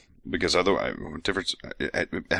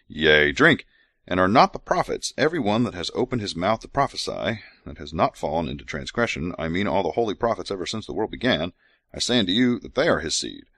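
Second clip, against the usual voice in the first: measured scripture recital; scripture reading; 3 semitones higher than usual. Acted. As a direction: read it like holy writ. Reads scripture aloud.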